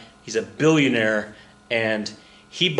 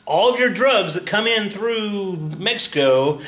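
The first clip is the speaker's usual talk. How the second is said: tongue in cheek; 6 semitones higher than usual. Real, not acted. Teacher joking to students about free trade, tongue in cheek. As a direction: play the stereotypes up as a knowing joke. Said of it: "tongue in cheek as I'm saying that".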